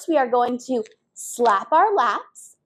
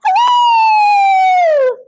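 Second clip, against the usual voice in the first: very high, loud squeak; tiny squeaky mouse hello; squeakiest voice; 8 dB louder than usual. Shown as a demonstration. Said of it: "Can we do our squeakiest voices".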